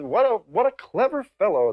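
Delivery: high, put-on admiring voice; admiring audience. Delighted audience praising the comedian, high mock admiration. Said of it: "they would say".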